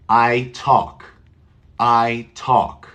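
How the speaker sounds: "talk" said as tawk, with no L at all. Shown as a demonstration. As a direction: drop the L in "talk". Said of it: "do you hear an L?".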